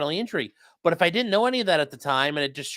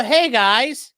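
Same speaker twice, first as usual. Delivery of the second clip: overly friendly; 4 semitones higher, 3 dB louder than usual. Pretend. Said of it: "You go".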